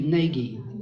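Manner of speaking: Nighy said "NAY-ghee", with a hard g; demonstrated pronunciation. Shown as a demonstration. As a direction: show Nighy as two syllables, "NAY-ghee". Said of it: "That's how they pronounce it".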